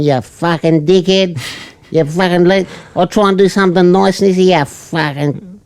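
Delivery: mock domestic row. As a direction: imitate a couple's row without really shouting. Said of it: "like, a full-on domestic".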